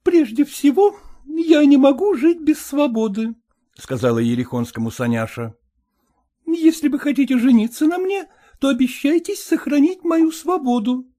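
a hint of a brisk, frank young lady; lightly voiced young woman. Young woman coolly tells her suitor to speak plainly.

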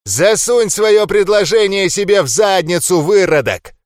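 loud, high enraged insult; furious curse. A narrator's reading. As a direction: spit the insult back. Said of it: "выругался разъярённый Ндорк".

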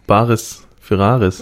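drawn out title announcement; slow announcement. Acted. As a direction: stretch the title out slowly. Announcing show title slowly.

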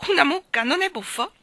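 high, loud delighted question; excited amusement. A narrator's reading. Michael pointing out the cow, excited amusement. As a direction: marvel at it, pitched right up.

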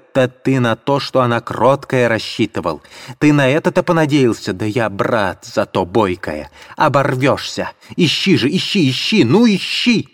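high-pitched indignant outcry; shrill, shocked accusation; Katerina shrieking. Acted. Katerina turning on the landlady, high shrill outcry.

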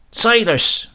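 high, loud shout of his name. A narrator's reading. Grandmother shouts at Silas across the paddock. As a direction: call him up short across the paddock. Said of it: "she shouted".

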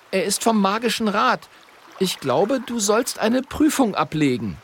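high, formal apprentice voice; a young apprentice announcing himself; Friederich's voice. A narrator's reading. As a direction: recite it bravely like an official envoy.

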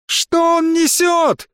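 a scandalised lady in the audience; outraged woman shouting. A narrator's reading. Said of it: "крикнула одна женщина".

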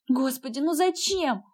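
usual speaking voice

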